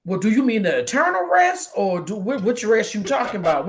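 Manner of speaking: high, animated baffled questions; mock exasperated questioning. Questioning God about what rest is meant, exasperated. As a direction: demand clarification in comic disbelief.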